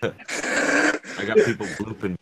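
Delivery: choppy call audio; words cutting out over a bad connection; call dropping out. Real, not acted. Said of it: "Yeah, you're just choppy".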